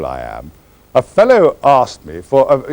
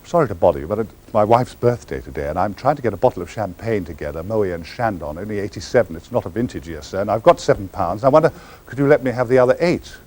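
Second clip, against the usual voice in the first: mock polite begging; 4 semitones lower, 5 dB quieter than usual. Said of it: "I mean, say".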